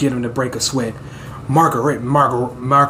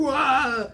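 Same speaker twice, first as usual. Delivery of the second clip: mock crying wail; 9 semitones higher than usual. Narrator imitates Dot crying, mock wail. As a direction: toss off a cartoonish sob. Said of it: "While Dot's out here crying".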